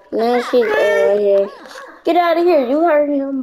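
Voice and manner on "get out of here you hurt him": telling off a pet that bit; annoyed loud shoo; shooing scold. Real, not acted. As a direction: chase her off loudly and higher. Shooing a character away.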